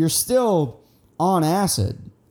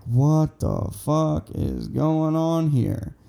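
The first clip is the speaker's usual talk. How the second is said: tag; slower than usual. Retold or imitated. Stunned at friend leaving the woods.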